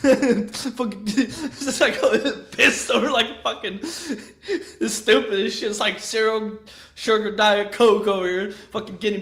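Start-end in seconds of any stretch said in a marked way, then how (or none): none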